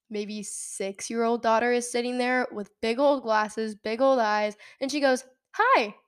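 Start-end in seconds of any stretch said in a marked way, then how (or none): 5.5-5.9 put-on high-pitched child's greeting; little girl. Six-year-old in back seat to stranger, little girl. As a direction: imitate a small child, pitched right up.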